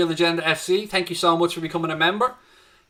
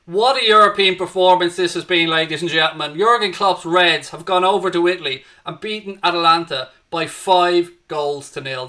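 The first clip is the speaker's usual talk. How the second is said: louder, proud full-time commentary; triumphant call; 2 semitones higher, 5 dB louder than usual. Real, not acted. Host announcing the five-nil away win to viewers, proudly loud. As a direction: proclaim the big away win.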